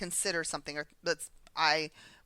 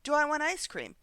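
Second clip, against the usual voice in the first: mock self-question; 9 semitones higher than usual. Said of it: "come back to".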